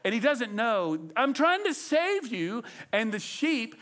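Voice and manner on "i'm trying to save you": lightly acted higher, slow plea; exasperated rescuer. Rescuer to the struggling sheep, mildly exasperated. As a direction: draw it out as a pleading rescuer. Voices shepherd pleading with sheep.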